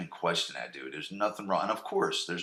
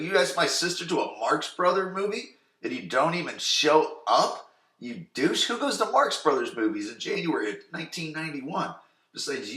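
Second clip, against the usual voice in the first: mock scolding Brandon; 5 semitones higher than usual. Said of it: "He's like".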